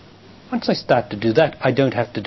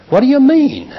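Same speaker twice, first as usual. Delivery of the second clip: much higher, louder, indignant what do you mean; man's bewildered retort; 8 dB louder than usual. Retold or imitated. Teacher imitating a man fleeing demands, high indignant squawk. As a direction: squeal it like a cornered boyfriend. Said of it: "He'll run away and say".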